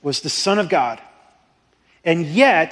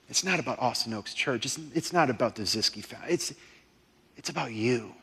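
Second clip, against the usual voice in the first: hushed intensity; 3 semitones lower, 5 dB quieter than usual. Real, not acted. Intimate hushed climax of sermon.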